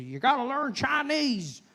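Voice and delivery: high, loud mocking voice with laughs; loud high parody of fearmongers; mock alarmist. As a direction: ham up a panicky know-it-all. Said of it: "I see people say".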